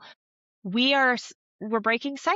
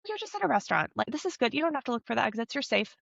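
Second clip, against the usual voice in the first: softer, quick inner reassurance; reassuring self-talk; 4 semitones higher, 3 dB quieter, much faster than usual. Pretend. Therapist models telling yourself you're safe, lightly reassuring. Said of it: "say in your mind".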